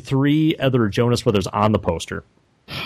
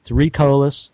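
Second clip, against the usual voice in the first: breathy sultry voice. Pretend. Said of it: "you were so breathy that your breath actually controlled everything".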